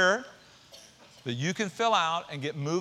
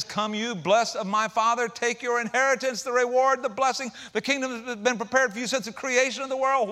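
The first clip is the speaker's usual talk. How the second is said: a raised, booming king's voice welcoming the blessed; preached loud and high as the king; 7 semitones higher, 5 dB louder than usual. Acted. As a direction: proclaim it like a joyful king. The king speaking in the parable.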